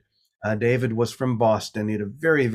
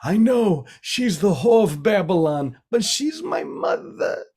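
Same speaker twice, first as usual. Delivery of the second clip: put-on thick Boston accent; 9 semitones higher than usual. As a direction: put on a heavy Boston accent, rising high at the end. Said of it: "in his very thick Boston accent".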